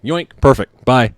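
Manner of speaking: quick, high and loud grab; snatch it and dash off, mock gleeful; cheeky waiter snatch. Waiter grabbing the ring from the nervous groom, high and loud.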